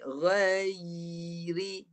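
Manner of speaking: "Ghairi" drawn out, y held before ri; tongue up, then down. Shown as a demonstration. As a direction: hold the y in "Ghairi", then drop to ri. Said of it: "Baru turun".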